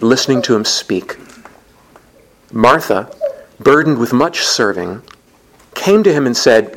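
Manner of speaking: measured, solemn liturgical reading; Gospel reading. Acted. Priest proclaiming the Gospel of Luke to the congregation, solemnly. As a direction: proclaim it plainly and reverently.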